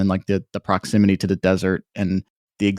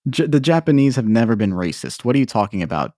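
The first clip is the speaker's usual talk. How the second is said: mock-defensive, higher-pitched insistence; sarcastic denial; 3 semitones higher, faster than usual. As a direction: play the indignant denier, tongue in cheek. Sarcastic parody of deniers.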